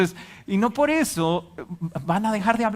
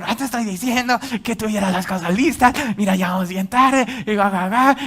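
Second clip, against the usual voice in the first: scolding spouse in a hurry, raised voice; couple's quarrel; 4 semitones higher, 5 dB louder than usual. Retold or imitated. Spouse in the car on Sunday morning, scolding loudly. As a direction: nag about being late.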